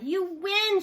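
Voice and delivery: loud, high calling shout. A narrator's reading. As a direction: call it out loudly. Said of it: "shouted Jaya".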